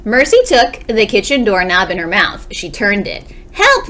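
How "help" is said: high, loud cry of help; calling for help. Acted. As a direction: yell it up toward the ceiling. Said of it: "Missus Watson called again".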